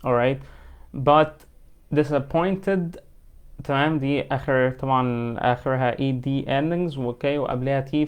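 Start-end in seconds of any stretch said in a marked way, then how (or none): 1.9-3.0 disappointed said slowly with the T dropped, "disappoinded". Shown as a demonstration. Teacher shows learners the T dropped after N in disappointed. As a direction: let the T vanish after the N in disappointed. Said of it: "Drop T هنا".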